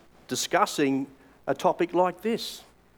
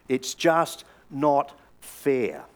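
weary lament; 2 semitones lower, much slower than usual. Shown as a demonstration. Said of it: "have you and I said those very words".

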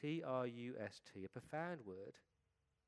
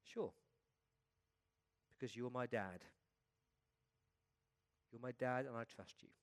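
calm, simple answer, unhurried pauses; a child's untroubled trust, lightly voiced; remarkable calmness. A narrator's reading. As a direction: answer dad without any fuss. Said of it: "He responded with remarkable calmness".

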